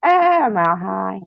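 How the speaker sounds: high, drawn-out giddy cry; mock laughing. Vlogger showing viewers her mood swings, mock giddy laughing. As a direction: pretend giddiness, slow and high. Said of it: "And then I'll laugh".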